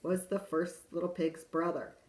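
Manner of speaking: lively wolf narrator telling his side; storyteller wolf. A narrator's reading. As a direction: read it as the sly wolf pleading innocence. Reads wolf's tale in character.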